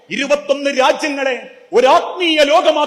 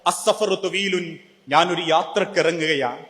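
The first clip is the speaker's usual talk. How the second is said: tearful; 4 semitones lower, 4 dB quieter than usual. Retold or imitated. Abu Hurairah to companions, nearing death, lightly tearful. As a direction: speak it as if near tears, holding back. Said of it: "കണ്ണുനീരോടെ പറഞ്ഞു".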